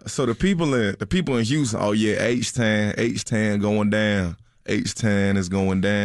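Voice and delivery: heavy mock Houston accent; Texas accent. Shown as a demonstration. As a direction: drag it out like a Houston rapper. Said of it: "Can you do something from Texas".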